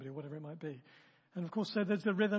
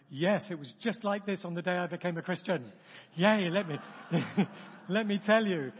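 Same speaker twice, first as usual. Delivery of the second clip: mock eager zeal; 6 dB louder than usual. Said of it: "and you go".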